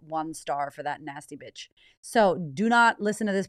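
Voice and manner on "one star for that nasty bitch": mock disgusted listener. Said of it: "You'll be like".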